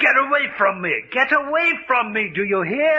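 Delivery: cornered animal fear; terrified yell. Acted. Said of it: "The fear of the trapped animal".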